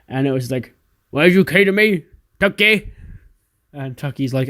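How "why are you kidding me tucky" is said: high, louder whiny complaint; upset Otis. Retold or imitated. Otis angry his music got cut, high whiny complaint. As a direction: whine it up high.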